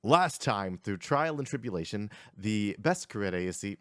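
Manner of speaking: energetic previously-on recap read; lively game master's intro; recap narration. Acted. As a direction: read the recap like a show opener. Reads the session recap.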